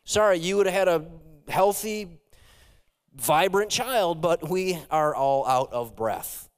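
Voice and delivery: a hint of a hospital clerk apologizing; mock apologetic hospital staff. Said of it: "imagine the trauma".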